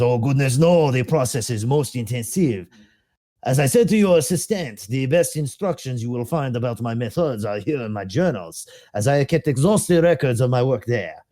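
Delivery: put-on light French accent as the plague doctor; SCP-049 answering Doctor Ham in a faint French accent; doctor's accent. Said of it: "I'll try to do the accent".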